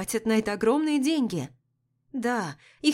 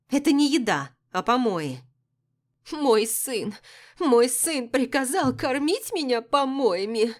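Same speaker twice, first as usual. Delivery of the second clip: indignant, breaking toward sobs; wounded empress, raised and tearful; tearful outrage; 4 semitones higher, 4 dB louder than usual. A narrator's reading. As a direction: complain as if about to burst into tears. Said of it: "всхлипнула она и заплакала".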